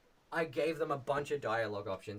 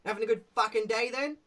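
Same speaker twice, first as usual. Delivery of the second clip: higher, louder goblin calling out to his mate; Toblin voice; 8 semitones higher, 8 dB louder than usual. Shown as a demonstration. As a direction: bark it across the bridge like a grumpy goblin. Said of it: "he's like".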